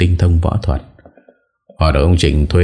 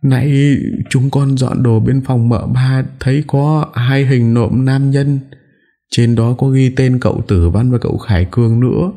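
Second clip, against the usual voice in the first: panting, broken voice; 9 semitones higher than usual. Acted. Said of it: "thở hổn hển, giọng đứt quãng".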